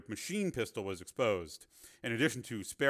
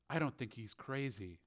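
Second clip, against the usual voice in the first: soft, measured rebuttal; quiet disagreement; 8 dB quieter than usual. A narrator's reading. Reporter defends the cyborg to cameraman, quiet disagreement. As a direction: disagree quietly against the agitation.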